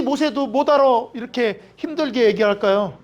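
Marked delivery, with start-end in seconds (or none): none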